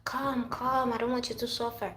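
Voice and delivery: mock-pleading friend voice; caring friend. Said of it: "They're like".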